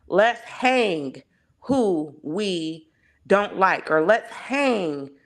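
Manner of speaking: slow, drawn-out Southern redneck drawl. Acted. Mocking a Southern redneck for the panel, Southern accent. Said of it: "that's my Southern redneck voice".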